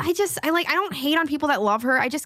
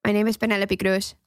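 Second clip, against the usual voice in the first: Penelope Cruz impression; 2 semitones lower than usual. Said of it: "Okay, here we go".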